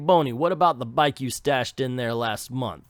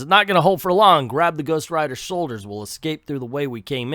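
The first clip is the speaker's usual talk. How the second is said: put-on caretaker in a drawling southern accent; 5 dB louder than usual. Caretaker urging them out, in a southern accent. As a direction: play the old caretaker with a southern twang. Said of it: "I changed the southern accent".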